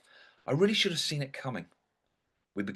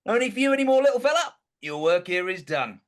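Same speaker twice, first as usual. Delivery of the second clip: mock tender farewell; 8 semitones higher, 6 dB louder than usual. Talking tenderly to his gallbladder.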